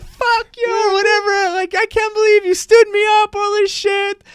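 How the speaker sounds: a hammed-up furious girlfriend; mock angry caller. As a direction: imitate her furious phone rant. Retold angry woman on phone.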